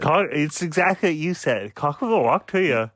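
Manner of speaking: badly faked Dutch country accent. Shown as a demonstration. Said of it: "that's your Dutch countryman voice?".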